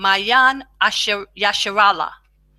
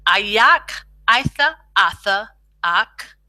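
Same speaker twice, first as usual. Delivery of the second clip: slow demo; slower than usual. Shown as a demonstration. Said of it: "good to practice out".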